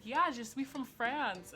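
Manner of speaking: slow mock-French "je suis"; French accent. French crush explaining where he's from, slow mock French accent. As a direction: stretch it out like a suave French boy.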